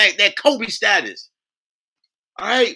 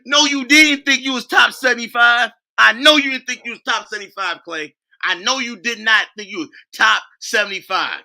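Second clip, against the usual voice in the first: mocking shout; 4 semitones higher than usual. Real, not acted. Mocking Klay, laughing loudly.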